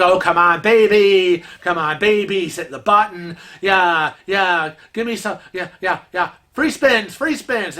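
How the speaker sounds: coaxing, excited; urging the slot machine. Retold or imitated. Kevin cheering his slot machine on, eager. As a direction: egg the machine on. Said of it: "he's like".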